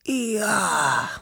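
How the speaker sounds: long high yawn on the word; drawn-out sleepy yawn, sinking. A narrator's reading. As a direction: yawn right through the word. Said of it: "gähnte Wuschel".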